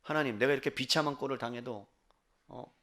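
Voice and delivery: low, subdued lament to God; acted quiet grievance, pitched well down; pleading complaint. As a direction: voice an aggrieved plea, soft and low. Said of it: "라고 하소연하는 거죠".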